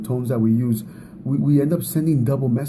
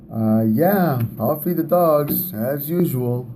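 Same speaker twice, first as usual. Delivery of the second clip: slow, louder grudging sarcasm under the breath; reluctant attitude; 3 dB louder, slower than usual. Retold or imitated. Husband grudgingly answering his wife's late-night request, sarcastic. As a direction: drag it out like a put-upon chore. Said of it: "I crack a little attitude".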